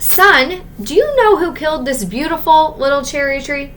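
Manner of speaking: the father demanding an answer about the tree; a hint of a stern father. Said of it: "he asked".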